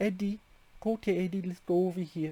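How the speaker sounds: put-on high, gentle, coaxing baby talk. Describing a film character, imitating how Homer talks to Eddie, Homer's baby talk voice. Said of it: "he almost has a baby talk voice".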